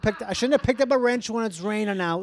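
lightly acted Boston guy making excuses; defensive Boston accent. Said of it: "you said you couldn't do Boston".

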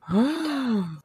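sharp high gasp of real shock; startled intake of breath. Real, not acted. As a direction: gasp like you can't believe it. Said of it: "What the fuck?".

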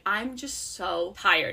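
slow exhausted echo; weary quote. Retold or imitated. Friend quoting the heroine's grief, slow and drained. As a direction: sigh it out slowly. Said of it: "when she was like".

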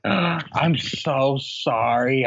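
very slow, drawn-out mock apology; a hammed-up mortified lady apologizing; mock embarrassed apology. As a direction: stretch out the sorry like a flustered lady caught out. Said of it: "She's like".

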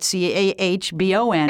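Boston accent, r dropped in carbon. Shown as a demonstration. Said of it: "understand my Boston accent".

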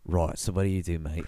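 matey put-on British accent; random British accent. Tolkien chatting to Lewis at the pub, botched British accent. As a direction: ask it as a botched Brit. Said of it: "do a random British accent".

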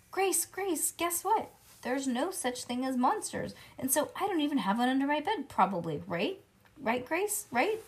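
high, excited pleading; eager begging. Acted. Junie B. pressing Grace on the bus, high and eager. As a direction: chase her friend for a yes.

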